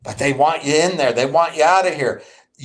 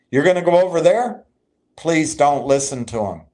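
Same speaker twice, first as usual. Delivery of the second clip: normal talking voice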